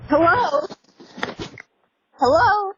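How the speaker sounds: loud call through a tinny speaker; doorbell speaker. Real, not acted. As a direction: call out through the door camera. Homeowner calling through doorbell.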